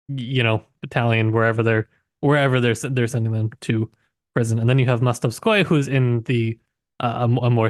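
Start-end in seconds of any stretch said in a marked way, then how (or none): none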